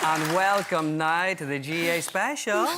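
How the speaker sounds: slow, lightly voiced host welcome; a hint of a TV presenter opening the show; Patrick Keeley impression. Impressionist opens a mock show, as Patrick Keeley. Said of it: "I'm your host, Patrick Keeley".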